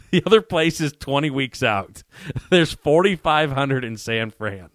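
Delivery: worked-up justification, retold; emphatic insistence. Retold insistent plea to supplier.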